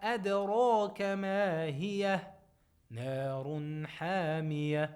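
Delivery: chanted tajweed recitation, held and measured; Quran recitation. Shown as a demonstration. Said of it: "So we say".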